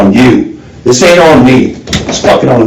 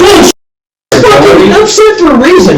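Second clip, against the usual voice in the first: furious shout; 13 semitones higher than usual. Real, not acted. Detective rejecting the suspect's denial, furious yell. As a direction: spit the word back at him.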